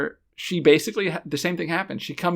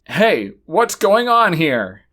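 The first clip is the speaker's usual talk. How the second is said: awkward stilted line; 5 dB louder, slower than usual. Retold or imitated. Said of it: "awkward and weird and stilted".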